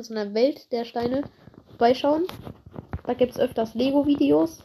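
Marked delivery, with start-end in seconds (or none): 0.0-1.2 Welt der Steine with Welt slow and stressed. Shown as a demonstration. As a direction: draw out Welt to set it apart from Held. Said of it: "also nicht Held der Steine".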